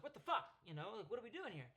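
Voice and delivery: sudden loud, high imitated outburst; snapping. Girlfriend snaps at him mid-apology, imitated outburst. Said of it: "and she snaps".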